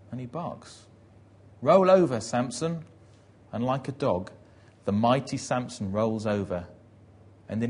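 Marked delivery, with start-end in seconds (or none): 1.6-2.8 loud, high order easing on the name; shouted command. Retold or imitated. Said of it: "somebody shouts".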